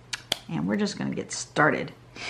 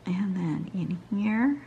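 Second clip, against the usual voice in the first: whispering; 5 dB quieter, slower than usual. Real, not acted. Muttering to herself while drawing.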